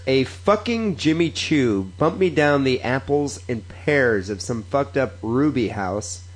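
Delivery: deliberate, measured read-aloud, word by word; slow recital of Cockney slang; slow read-back. Acted. Reads Cockney phrase back slowly.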